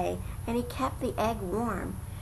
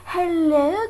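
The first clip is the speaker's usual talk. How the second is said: bright high call, louder; cried out hello; 7 semitones higher, 6 dB louder than usual. A narrator's reading. Lazy bird calling to the elephant, high and loud. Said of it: "cried the lazy bird".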